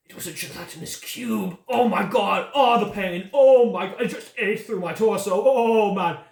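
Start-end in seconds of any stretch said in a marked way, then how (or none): 1.7-6.2 higher, louder pained moaning; groaning in pain. Acted. Dying man tells the party about the cube, pained moans. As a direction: moan through the agony.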